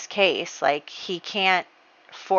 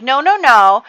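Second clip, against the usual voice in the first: loud rising no, no, no; emphatic denial; 6 semitones higher, 10 dB louder than usual. Acted. Francesca rejecting Jay's blame, loud emphatic no. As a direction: shut down his excuse hard.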